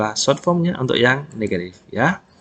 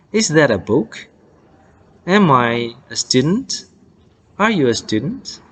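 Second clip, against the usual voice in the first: quicker, connected questions; 2 semitones higher than usual. Shown as a demonstration. Teacher shows learners everyday speed, quicker pronunciation. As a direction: run each question together, lifting the last word. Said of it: "boleh agak lebih cepat lagi".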